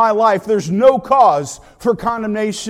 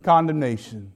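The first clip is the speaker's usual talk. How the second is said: slow and deliberate; slower than usual. Shown as a demonstration. Preacher giving the true reading of the verse, slowly. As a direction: draw it out with weight. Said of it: "Instead it is".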